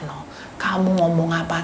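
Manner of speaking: usual speaking voice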